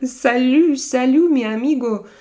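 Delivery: a light put-on Spanish accent on Salut and mi amigo; breezy, lightly Spanish-tinged hello to a friend; mock Spanish accent. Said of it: "Nice accent".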